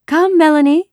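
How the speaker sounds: put-on high, loud girl's doll voice; play-acting girl. A narrator's reading. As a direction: call out brightly in a make-believe game.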